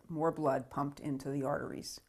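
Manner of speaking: whispered aside. Real, not acted. Adds a quiet explaining aside.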